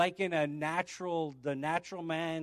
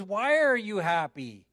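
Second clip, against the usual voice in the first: acted curiosity; 3 semitones higher, 5 dB louder than usual. Acting insistent follow-up question.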